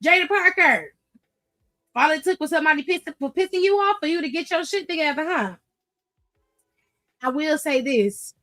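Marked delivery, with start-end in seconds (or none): 0.0-5.6 sassy address. Pretend. Addressing wrestler in playful voice.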